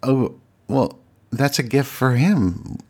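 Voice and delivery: high, slow, pointed inner voice; wounded sarcasm. Retold or imitated. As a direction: say it with a sting, feeling left out. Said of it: "I was instantly like".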